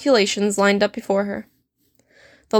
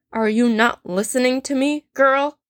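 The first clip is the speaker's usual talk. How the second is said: snarl; 3 semitones higher than usual. Acted. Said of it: "he snarled".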